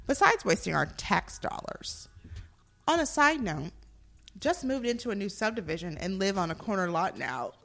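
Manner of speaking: dramatic reading of a complaint; actor's voice. Acted. Host reading police review to co-hosts, actor's voice. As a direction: perform the bad review like an indignant actor. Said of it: "I'm gonna be in my actor's voice".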